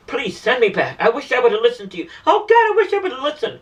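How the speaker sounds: retold tearful plea, rising to a high cry on Oh, God; imitated pleading. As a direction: mildly mimic a woman begging for another chance. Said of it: "cried, begged and pleaded".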